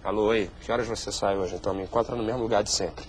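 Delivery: low, quiet secret phone call; hushed low voice. Acted. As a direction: murmur it to a lover.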